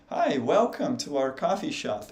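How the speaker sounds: imitating an American greeting a customer; lightly put-on American delivery, lively pitch swings; American accent. Shown as a demonstration. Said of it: "você ouviria um americano falar assim". (imitando sotaque americano)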